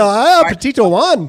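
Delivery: loud, laughing mock Hispanic accent. Host jumping in on the accent request, mock Hispanic. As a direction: burst out in a joke Hispanic accent. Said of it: "Todd's, uh, Hispanic Southern accent".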